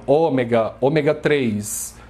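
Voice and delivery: ômega stressed on the first syllable, Ô-me-ga; everyday Brazilian Ô-mega; Brazilian pronunciation. Shown as a demonstration. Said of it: "como os brasileiros falam".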